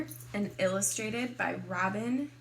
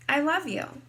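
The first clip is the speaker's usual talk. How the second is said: put-on higher-pitched childlike reply; little girl replying; 5 semitones higher, 7 dB louder than usual. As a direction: say it back as the daughter, pitched up. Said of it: "all I can say back is".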